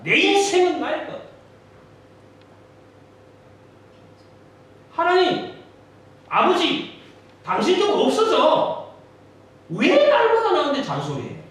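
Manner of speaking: high, loud defiant rant; defiant shouting. Acted. Rebellious son loudly telling God to go away. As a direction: yell it back at a nagging father.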